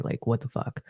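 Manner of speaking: whispered exasperated aside; whispered what the fuck. Retold or imitated. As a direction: mutter it in disbelief. Retold angry comeback muttered.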